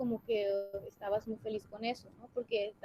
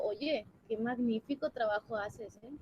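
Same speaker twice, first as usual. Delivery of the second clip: mock praise, gently sarcastic; ironic praise. Shown as a demonstration. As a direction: compliment while meaning the opposite. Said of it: "utilizan un tono irónico". (elogio irónico)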